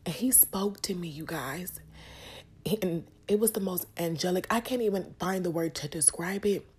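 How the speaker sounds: moved while testifying, voice lifted; getting emotional. Real, not acted. Telling viewers of hearing God speak, emotional. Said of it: "I'm getting emotional".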